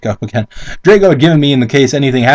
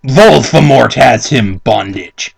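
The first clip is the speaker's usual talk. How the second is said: mock solemn read; 4 semitones lower, slower than usual. Rereading the misspelt line.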